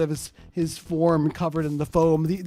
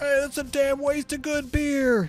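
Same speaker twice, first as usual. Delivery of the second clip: in-character high-pitched, raised yell; 9 semitones higher than usual. Voicing an undercover character in a game: in-character yell.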